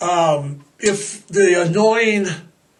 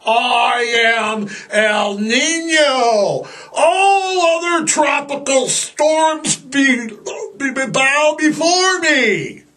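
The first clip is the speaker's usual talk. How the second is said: dark lord; 6 semitones higher, slower than usual. Acted. Voicing El Nino as villain.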